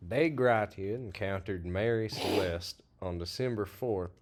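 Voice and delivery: reading like a news report; news reporter. Acted. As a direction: read it like a country news anchor. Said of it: "I read that like a news reporter".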